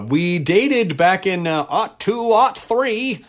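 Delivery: put-on slow, lightly old-timey delivery. Shown as a demonstration. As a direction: say it like an old-timer reminiscing. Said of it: "you have to say it with the old-timey voice".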